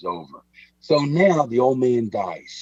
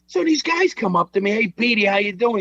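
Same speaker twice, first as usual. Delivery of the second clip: much higher, put-on voice of an indignant old gangster; old Pete's voice; 10 semitones higher, 4 dB louder than usual. Telling Mike about his father, indignant high old-man voice. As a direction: play Pete, outraged he laughs. Voicing old Pete, retold.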